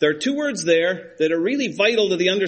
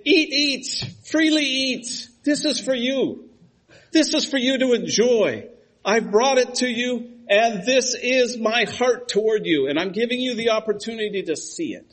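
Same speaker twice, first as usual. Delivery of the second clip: voicing God gently; 7 semitones higher than usual. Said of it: "What God is doing is saying".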